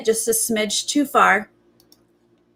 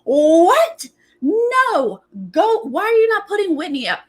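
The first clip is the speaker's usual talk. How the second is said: outraged disbelief; 9 semitones higher than usual. Retold or imitated. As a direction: demand answers, incredulous and upset. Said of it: "And she's like".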